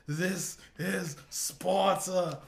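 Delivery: slow, high, hammed-up roar; huge drawn-out movie-style shout; mock battle cry. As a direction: bellow it like a war cry, each word stretched out. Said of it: "And he just goes".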